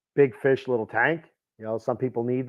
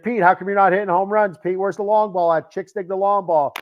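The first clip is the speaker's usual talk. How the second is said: higher-pitched mock scolding of husband Pete; lightly voiced nagging wife, pitched up; 5 semitones higher than usual. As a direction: play the wife griping about a bad swing. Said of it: "And she's like".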